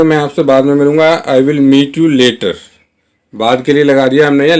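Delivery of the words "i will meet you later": slow model sentence. Shown as a demonstration. Teacher modelling the English line for Hindi learners, very slow. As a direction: say each word slowly and clearly. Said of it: "कैसे बोलेंगे?".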